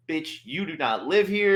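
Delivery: high and slow, laughing through it; half-laughing mock tirade; laughing mock outrage. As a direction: laugh while playing the outraged friend. Retelling Kayla's rant, laughing.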